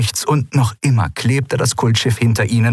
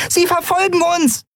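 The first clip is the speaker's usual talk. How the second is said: much higher, small creature's alarmed cry; small creature calling out. A narrator's reading. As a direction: call the warning in Nelen's tiny voice. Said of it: "rief Nelen". (hohe, aufgeregte Stimme der kleinen Yadi)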